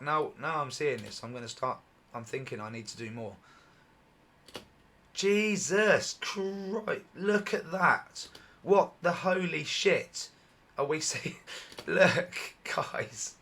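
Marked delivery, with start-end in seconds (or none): 5.1-13.3 real awe, the voice stretching and straining; excited voice going. Real, not acted. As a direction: pitch up and louder, dragged out in amazement. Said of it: "my voice is going again".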